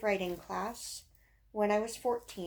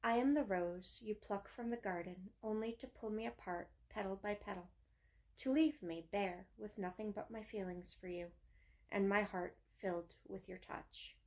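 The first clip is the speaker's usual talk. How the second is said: measured, understated verse reading; poem recitation; 3 dB quieter than usual. Acted. Reading own teenage poem about a rose, understated recitation. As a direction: read the poem in short, even phrases.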